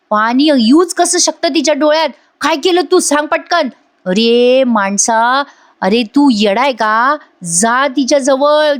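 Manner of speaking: mock angry scolding. Father-in-law scolds Raja over the crying daughter-in-law, acted mildly angry. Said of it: "अण्णा खूप चिडतो".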